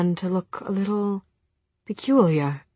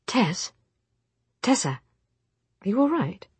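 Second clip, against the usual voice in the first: alarmed; 4 semitones higher than usual. Acted. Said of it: "sudden alarm in his voice".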